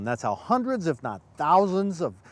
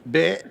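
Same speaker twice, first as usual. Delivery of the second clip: mock deer grunt; 6 dB louder than usual. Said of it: "Like that?".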